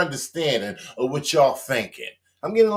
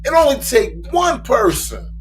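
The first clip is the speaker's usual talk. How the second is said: rising, louder indignant outburst; outraged shout; 2 semitones higher, 3 dB louder than usual. Real, not acted. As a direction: build up to a fired-up shout. Commentator's outraged rant.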